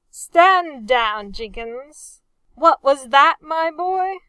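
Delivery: loud, rising challenge; sharp demand. A narrator's reading. Captain demanding Talbot repeat what he said. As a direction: cut him off and demand an answer.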